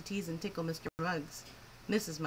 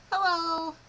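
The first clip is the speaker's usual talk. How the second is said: high squawking parrot hello; 9 semitones higher, 8 dB louder than usual. Acted. Parrot Ralph greeting his owners, loud high squawk.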